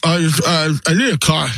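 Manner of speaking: mouth full. Acted. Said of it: "I have something in my mouth".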